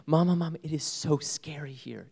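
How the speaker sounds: put-on high, scared little girl's voice; frightened little girl. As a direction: voice the child telling her mother she is afraid, high. Daughter voiced in retold reunion.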